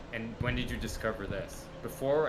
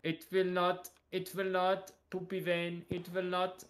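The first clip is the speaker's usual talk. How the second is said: mock high scold; 6 semitones higher than usual.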